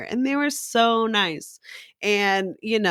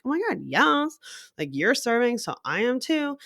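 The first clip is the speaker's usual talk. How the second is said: energized; 5 semitones higher than usual. Acted. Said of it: "You kinda get someone's energy".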